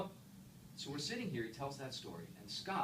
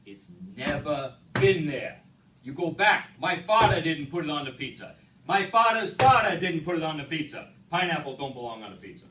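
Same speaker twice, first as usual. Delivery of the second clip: Vinny's rant; 4 semitones higher, 15 dB louder than usual. Retold or imitated. Vinny refusing pineapple to the speaker, loud indignant shout. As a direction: lay down the family law, loudly. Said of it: "You imagine the rant".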